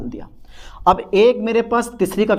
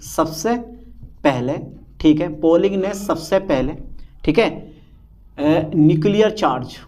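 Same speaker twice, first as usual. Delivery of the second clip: slow dictation. Shown as a demonstration. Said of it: "मैं लिख दे रहा हूँ".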